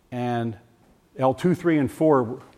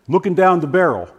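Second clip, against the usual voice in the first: laughing disbelief; 3 semitones higher, 5 dB louder than usual. Real, not acted.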